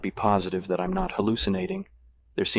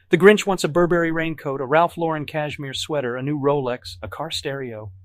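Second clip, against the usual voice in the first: higher, mock-grand Grinch wishlist; 8 semitones higher, 4 dB louder than usual. A narrator's reading. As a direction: camp it up as the Grinch. Plays the Grinch sarcastically.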